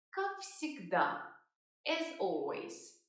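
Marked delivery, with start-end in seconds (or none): 0.1-1.2 slow, careful teacher's model; slow model phrase. Shown as a demonstration. Teacher modelling the answer slowly. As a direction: say it slowly for learners. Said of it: "Another very common way of answering".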